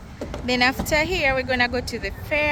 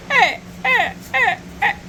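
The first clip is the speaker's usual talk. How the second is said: excited hey; 10 semitones higher, 4 dB louder than usual. Real, not acted. Cheering on the way to the fair.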